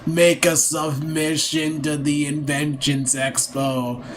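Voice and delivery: a weary brother pleading in slow motion; slow strained character voice. Acted. Brother scolding his sibling about wasted time, slow strained voice. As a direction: drag every word out slowly, straining the throat. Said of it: "Talking like that's killing my throat".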